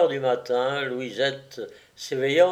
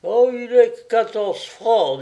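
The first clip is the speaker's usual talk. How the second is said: higher, louder character line; exclaiming; 8 semitones higher, 6 dB louder than usual. A narrator's reading. Sculptor's friend answers in the tale, exclaiming. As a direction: exclaim it with raised pitch. Dialogue read aloud in tale.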